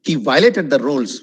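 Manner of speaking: violated as "VY-lated"; wrong pronunciation. Shown as a demonstration. Teacher giving a wrong example, violated mispronounced. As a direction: drop the O in violated.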